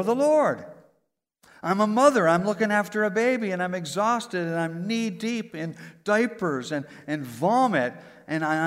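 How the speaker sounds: loud, ringing preacher's cadence, each line landing on the Lord; rally the congregation line after line; preaching at full force. Acted. Preacher rousing the congregation with a loud, ringing cadence.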